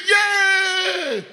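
high, loud happy "Yay!"; a joyful child's shout; child's cheer. Retold or imitated. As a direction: cheer like a delighted little girl. Daughter cheers.

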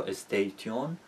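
استیتیون said as es-tey-ti-yoon; a second learner guess, استیتیون as es-tey-ti-yoon; wrong spelling pronunciation. Shown as a demonstration. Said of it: "هر شکلی ممکنه بخونیمش".

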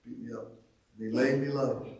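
solemn recited hymn verse, measured and lifted; hymn recitation. Acted. Preacher reciting a hymn to the congregation, solemn and lifted. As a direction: read the old hymn like a poem from the pulpit.

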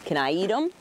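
low, playful gobbling monster. Pretend. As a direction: growl it low like a hungry puppet. Puppet Susie eating fingers.

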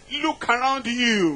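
lightly voiced God, preached firmly; measured preacher's voice for God; Almighty God. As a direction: deliver it as a divine command. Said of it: "Almighty God said".

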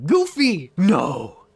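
loud, high cry dropping to a no; mock outraged cry. Player reacting to Goofy the villain, mock outraged cry. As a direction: cry out in mock dismay at the name.

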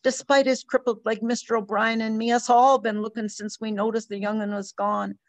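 mother pouring out fear for her lost son, rising to panic; distraught mother. Acted. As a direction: spill out the fear until it breaks at the top. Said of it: "poured the story out".

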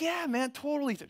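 breezy, high, fake-friendly "yeah man"; high fake-casual brush-off; mock empty promise. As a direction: toss it off like you'll never call. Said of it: "You're like".

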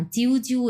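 জিউ with a plain "iu", no o glide; wrong pronunciation. Shown as a demonstration. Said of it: "এগুলো হবে না".

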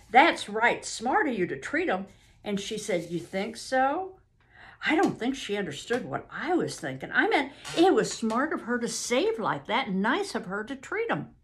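lightly voiced rural Southern witness; earnest witness. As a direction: explain yourself politely in a light Southern dialect. Witness explains his remark.

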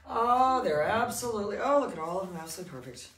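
high, loud gushing delight; excited. Real, not acted. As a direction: gush over the puppies. Excited over the puppies.

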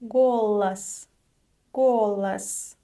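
голос with the final о reduced; teacher pronunciation demo; careful Russian word. Shown as a demonstration. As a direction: model голос, stress on го. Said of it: "pay attention to the pronunciation of the unstressed O".

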